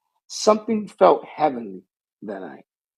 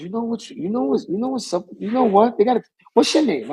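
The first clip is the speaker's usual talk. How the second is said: 1 quoting Vince; 8 semitones higher, faster than usual. Retold or imitated. Retold quote, Vince mimicked.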